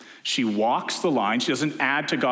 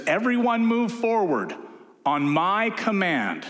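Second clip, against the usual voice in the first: army commander order; 7 semitones higher, slower than usual. Retold or imitated. Commander ordering troops forward, commanding and raised. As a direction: bark it across the field. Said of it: "an army commander says".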